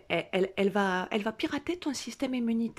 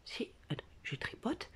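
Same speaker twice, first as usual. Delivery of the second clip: breathy aside to herself; whisper; 4 semitones higher, 10 dB quieter than usual. Retold or imitated. Feeling her neck, whispering to herself. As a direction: whisper while feeling the spot. Inner voice checking the spot.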